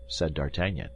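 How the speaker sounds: normal talking voice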